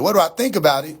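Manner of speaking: firmer, livelier repeat of the question; insistent echoed question. Real, not acted. Streamer repeating what everybody asks him, insistent and incredulous.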